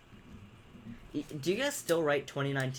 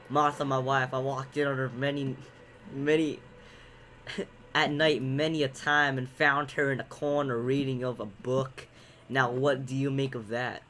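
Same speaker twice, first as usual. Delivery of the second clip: lightly voiced, louder stage reading; play character; 5 dB louder than usual. Husband telling of his wife's reading, play character. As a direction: read it out like a troubled husband.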